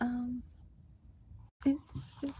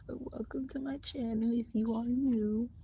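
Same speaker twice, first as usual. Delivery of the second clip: voiced louder greeting; 3 semitones higher, 4 dB louder than usual. Real, not acted. Greeting new viewers out loud from the library. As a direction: welcome said out loud and higher, not whispered. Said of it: "so that's why I'm whispering".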